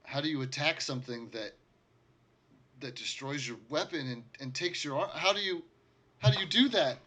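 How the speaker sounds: rising from high to very high and loud; building despair. Acted. Survivor asks the party, building to a desperate cry.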